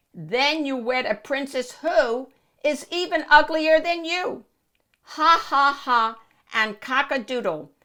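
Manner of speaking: high, cackling witch chanting a spell; witch fortune-telling. Acted. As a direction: cast the fortune like a gleeful hag. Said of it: "crowed the witch".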